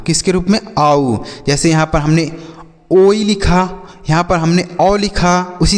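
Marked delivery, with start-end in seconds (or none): 0.8-1.2 "आऊ" as an aa-oo glide; ou diphthong. Shown as a demonstration. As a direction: show "आऊ" sliding from aa to oo. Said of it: "वह आऊ के रूप में होगा". ("आऊ" को आ से ऊ तक बोलें)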